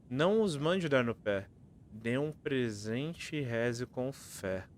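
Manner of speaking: riddle recited with lilting line ends; reading verse aloud. Acted. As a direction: read each line out clearly like a rhyme.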